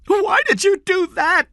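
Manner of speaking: very high, loud accusation; distraught mother screaming at her husband; shouting. A narrator's reading. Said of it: "Diane shouted".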